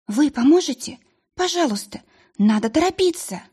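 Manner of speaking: high, pressing plea; urgent pleading. Acted. Tearful girl urging the witch to hurry. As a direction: beg her to hurry.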